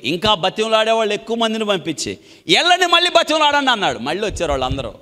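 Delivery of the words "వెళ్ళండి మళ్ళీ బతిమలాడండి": high, louder royal command; commanding order. Acted. King commanding his messengers to plead again, sharply. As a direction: send them off with authority.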